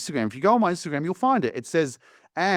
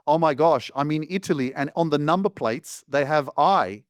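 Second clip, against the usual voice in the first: mock amazement, a little higher; lightly feigned wonder; sarcastic; 3 semitones higher than usual. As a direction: play dumb over a trivial discovery. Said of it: "The next thing I said that was sarcastic".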